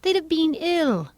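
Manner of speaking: high, slow, gentle Alice. A narrator's reading. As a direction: remark it gently, drawn out and high. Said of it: "Alice gently remarked".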